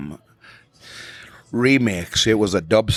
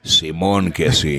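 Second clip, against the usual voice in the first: laughing; 4 semitones lower, slower than usual. Real, not acted. Laughing banter about glasses.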